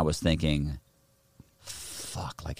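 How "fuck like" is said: breathy whispered "fuck"; whispered curse. Retold or imitated. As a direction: whisper it under your breath. Worried thought.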